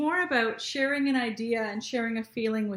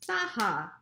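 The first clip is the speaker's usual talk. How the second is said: Saha said in two clear beats, SA-HA; two even beats; syllables clapped out. Shown as a demonstration. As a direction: clap out each syllable of Saha. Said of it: "Let's clap it".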